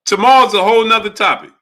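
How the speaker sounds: high-pitched, insistent protest; mock indignation. Real, not acted. Host refusing caller's comeback tomorrow, high mock indignation.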